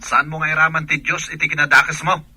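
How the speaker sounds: loud, scolding outburst; angry rebuke. Acted. Wife scolding the other woman on the phone, loud rebuke. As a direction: scold her for dragging in God.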